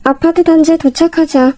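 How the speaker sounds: ordinary delivery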